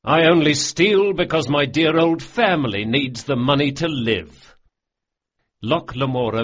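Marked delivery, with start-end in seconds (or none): 0.0-4.6 louder, a touch higher, proclaiming with a wine glass; raised mock-grand toast. A narrator's reading. Locke Lamora toasting his fellow thieves, proclaiming boldly. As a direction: declare it like a showman's boast.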